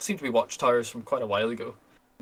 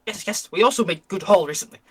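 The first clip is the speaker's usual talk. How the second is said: higher, broken-English goblin welcoming guests; pleased goblin; 4 semitones higher than usual. Acted. Camp goblin invites the merchant to share the fire, higher goblin voice. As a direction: play a greedy goblin happy to share the fire, pitched higher. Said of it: "he looks around and he goes".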